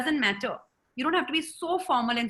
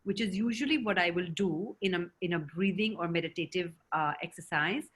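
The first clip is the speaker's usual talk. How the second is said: slowing down; 5 semitones lower, 5 dB quieter than usual. Shown as a demonstration. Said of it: "slowing down and I start talking like this".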